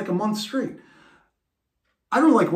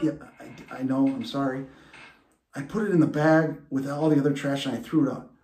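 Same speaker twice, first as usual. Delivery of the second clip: meek apology; 3 semitones lower, faster than usual. Retold or imitated. Scared son apologizes.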